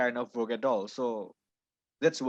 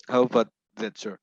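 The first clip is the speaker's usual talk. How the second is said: louder, projected question; speaking up; 6 dB louder, faster than usual. Real, not acted. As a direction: ask it out loud and clear. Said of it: "can you repeat that?".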